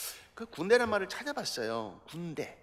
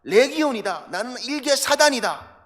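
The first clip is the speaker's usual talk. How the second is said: possessed man declaring; 2 semitones higher, 6 dB louder, slower than usual. Retold or imitated. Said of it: "악한 영에 씌운 사람이".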